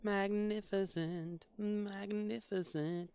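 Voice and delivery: slow, stretched-out ring announcer call; announcer drawl. Retold or imitated. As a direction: drag out each syllable like a wrestling intro. Drawn-out ring announcer imitation.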